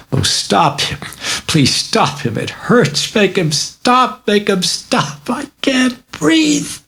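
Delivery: high, slow pleading fading to a breathless whisper; begging for help until the breath runs out; terrified child. Acted. Girl begs the doctors, high pleading to a gasp.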